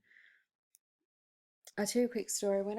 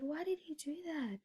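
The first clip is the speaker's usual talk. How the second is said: whisper; 9 semitones higher, 6 dB quieter than usual. Retold or imitated. Retelling whispering to mum at table.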